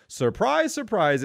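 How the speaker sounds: sarcastic. Real, not acted. Sarcastic non-surprise.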